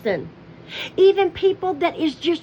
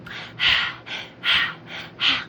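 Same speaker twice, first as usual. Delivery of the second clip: exaggerated mock sigh; 3 dB quieter than usual. Mimicking Candy sighing at strangers, mock sigh. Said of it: "and you'll start sighing".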